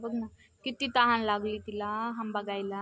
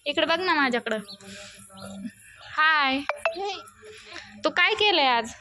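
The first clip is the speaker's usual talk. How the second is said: coaxing call; 6 semitones higher, 3 dB louder than usual. Real, not acted. Mother coaxes little daughter.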